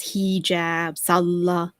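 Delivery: "Hijab" and "Salah" stressed on their first syllables. Retold or imitated. Commentator shows her habit, first syllables stressed in "Hijab, Salah". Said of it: "put the emphasis on the first syllable".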